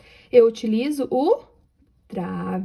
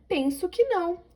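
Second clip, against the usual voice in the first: a higher, softer repeat; exclaiming; 7 semitones higher, 4 dB quieter than usual. Shown as a demonstration. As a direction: exclaim it again more softly. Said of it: "Então, exclamação". (exclamando mais suave)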